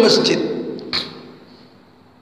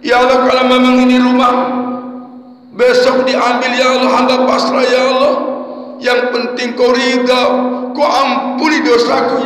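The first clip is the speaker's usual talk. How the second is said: raised, heartfelt plea to God, surrendering; fervent pleading prayer; 3 semitones higher than usual. Retold or imitated. Preacher retells the man's prayer to his congregation in a fuller voice. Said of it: "Kenapa udah gak gondelin lagi?".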